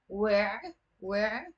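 "where" as a short "we" closed by a throaty ayn; kasra on waw. Shown as a demonstration. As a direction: say where as Arabic "we'", rising, for repetition. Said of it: "There is a kasra under the waw".

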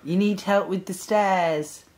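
slow, clearly spaced words; slow and deliberate. Real, not acted. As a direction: spell it out slowly for the spirit. Asking a spirit a question.

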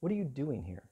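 quiet, searching question; soft question. Acted. God asks Elijah in the cave, softly. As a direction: ask it softly, almost to himself. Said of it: "there came a voice to him and said".

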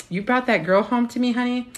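a hint of a mother sizing up the girlfriend; judgy mother. Mother to her son about his girlfriend, mock disapproving.

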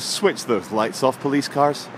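slow scolding imitation, lightly voiced; a hint of a stern activist telling off police cars, slowly; mock Greta Thunberg. Blogger mocks the idling police cars, slow mock scolding. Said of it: "Greta Thunberg says".

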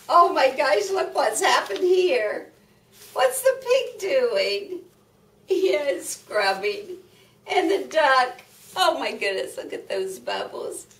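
high, loud storytime excitement; excited. Real, not acted. Excited about picture for children.

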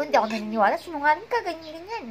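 mock angry comeback; angry accusation. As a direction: call him a liar to his face. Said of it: "Inaway ko talaga".

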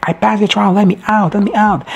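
high, pleading call to be let out; frantic plea. Retold or imitated. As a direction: beg to be let out, buried alive. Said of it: "she's like".

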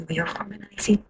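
whisper. Real, not acted. Whispered aside while singing.

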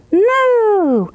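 high mooing cow. Acted. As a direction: moo like a cow. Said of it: "And the cow said".

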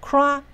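"crack" high, then let the pitch fall for the weak syllable; stressed high, then dropping. Shown as a demonstration. Teacher showing the weak syllable comes down after high "crack". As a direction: start "crack" high and step down. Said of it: "轻音节又降下来".

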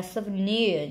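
"souvenir" with weight on "nir"; third-syllable stress. Shown as a demonstration. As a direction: slowly lean on the end of "souvenir". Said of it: "nhấn âm ba".

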